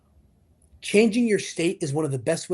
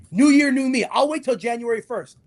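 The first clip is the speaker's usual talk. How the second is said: mock resolution-maker; 7 semitones higher, 5 dB louder than usual. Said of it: "The people that say".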